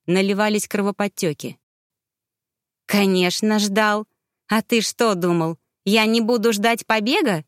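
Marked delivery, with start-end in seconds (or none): 2.9-7.4 haughty. Acted. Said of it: "свысока заявил Мегарей".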